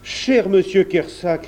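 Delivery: high, slow, fond exclamation; overjoyed. A narrator's reading. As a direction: savour greeting a dear friend. Jean overjoyed at reunion.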